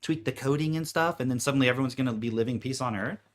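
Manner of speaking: loud, high exasperated yell; mock yelling rant. Scolding DMT users to get back to reality, yelling. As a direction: shout at them like a fed-up boss.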